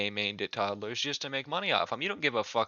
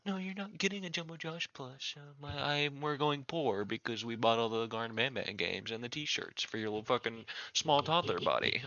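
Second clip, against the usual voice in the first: tired mum, softer; 6 dB quieter than usual. Acted. Mom refuses the toddler.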